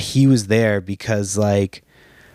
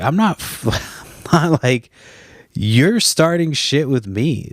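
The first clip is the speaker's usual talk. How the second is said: laughing while talking; 4 semitones higher than usual. Retold or imitated. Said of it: "laughing as I'm talking".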